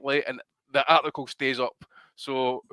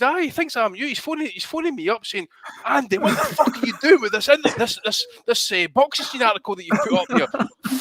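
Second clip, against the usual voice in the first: imitating Donnie; 8 semitones higher, 3 dB louder than usual. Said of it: "He says".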